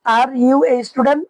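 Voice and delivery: every word stretched slowly; very slow model. Shown as a demonstration. Teacher slowly repeats the English question for beginners. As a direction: spell out each word slowly. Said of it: "আর".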